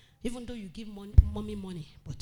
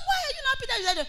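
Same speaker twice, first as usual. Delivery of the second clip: laughing question; 12 dB louder, much faster than usual. Retold or imitated. Preacher amused, asking child.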